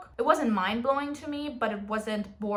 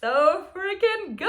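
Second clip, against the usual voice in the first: gushing; 8 semitones higher, 5 dB louder, slower than usual. Real, not acted. Gushing about a favourite book.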